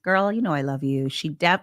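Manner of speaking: normal talking voice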